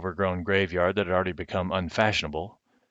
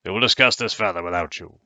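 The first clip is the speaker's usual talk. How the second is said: put-on louder, commanding old Roman; stern dismissal; 5 dB louder than usual. Loud stern command. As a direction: Caius Pompeius sends Missus Owens away. Caius dismisses Missus Owens.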